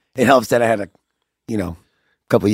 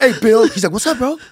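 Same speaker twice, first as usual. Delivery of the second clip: bro voice; 12 semitones higher than usual. Retold or imitated. Voicing bandmate greeting.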